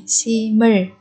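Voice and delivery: "sim을" slowly, m carried into the next syllable; linked sounds. Shown as a demonstration. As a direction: run "sim을" together as si-meul. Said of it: "nối âm đọc thành".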